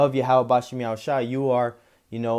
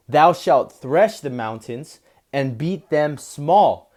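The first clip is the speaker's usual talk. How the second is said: slow, solemn reading, louder at the start; scripture reading; 3 dB louder, slower than usual. Acted. Preacher reading the Lord's promise, slow and proclaiming. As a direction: proclaim the Lord's words slowly. Reads verse fifteen.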